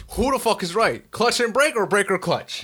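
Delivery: retold outburst of confused frustration; fed up with conflicting orders; exasperated retort.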